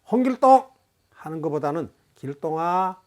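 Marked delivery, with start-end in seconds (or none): 0.1-0.7 loud, high full-name call; curt, raised-voice summons; harsh name-calling. Shown as a demonstration. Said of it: "하는 것이 부드럽습니다". 2.2-3.0 gentle call with a drawn-out 길동아; relaxed, kindly call at an easy pitch; soft name-calling. Shown as a demonstration. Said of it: "하는 것이 부드럽습니다".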